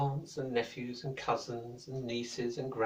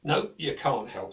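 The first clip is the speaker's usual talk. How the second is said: slow, louder no; dismissive wizard; 5 dB louder than usual. Acted. Wizard refusing Sven's help, slow and curt. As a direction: brush him off slowly. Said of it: "said the wizard".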